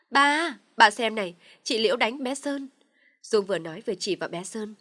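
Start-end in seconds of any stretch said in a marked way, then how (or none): 0.1-2.7 high, loud pleading accusation. Acted. Dung loudly accuses her sister-in-law in front of her parents. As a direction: call the parents to look, loudly.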